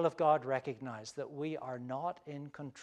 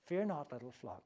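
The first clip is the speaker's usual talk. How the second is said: put-on softer, gentle reassurance to frightened children; reassuring parent; 2 semitones lower, 6 dB quieter than usual. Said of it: "the voice of a parent reassuring frightened children".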